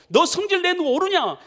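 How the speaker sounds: high, loud challenge; God rebuking. Acted. God questions angry Jonah, sternly challenging. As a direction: demand an answer in a stern rebuke. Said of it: "하나님이 이렇게 말씀하세요".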